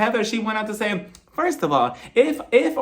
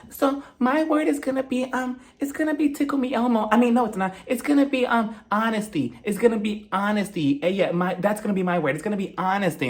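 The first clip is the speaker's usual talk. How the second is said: petty Whitney; 3 semitones higher than usual. Retold or imitated. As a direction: pitch up and sound innocently petty. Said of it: "she takes a dig at Heather".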